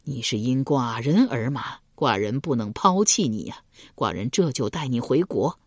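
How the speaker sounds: 深情低沉地说; moved and tender. Acted. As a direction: promise her earnestly, with feeling. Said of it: "齐桓公动情地说道".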